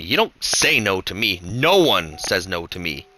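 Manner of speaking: slow, menacing bully threat; evil grin. Acted. Demo threatening the girl who refused him, slow and menacing. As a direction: lean in and spell it out slowly. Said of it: "Demo grinned evilly".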